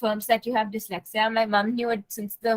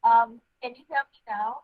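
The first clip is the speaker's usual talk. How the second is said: muffled; 4 dB louder than usual. Real, not acted. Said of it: "It's a bit muffled voice".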